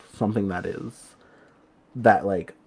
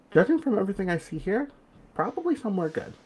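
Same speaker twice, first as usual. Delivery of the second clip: much higher, lilting reassurance; reassuring spirit guide; 12 semitones higher, faster than usual. Acted. Guide telling the dead climber where he may be headed, reassuring. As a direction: lift the voice high, offering comfort without pushing.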